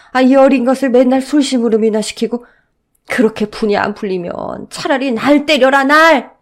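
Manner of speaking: put-on loud old man's rebuke building to a shout; an old man stepping in to protect the child; angry grandfather. Grandfather defending the boy from his son, loud and pained.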